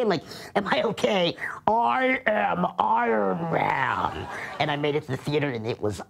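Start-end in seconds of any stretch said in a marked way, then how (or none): 0.5-4.3 whispered very slowly for effect; dramatic whisper. Pretend. Telling his worried buddy on the phone, slow hushed whisper. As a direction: hush it out like a secret hero reveal.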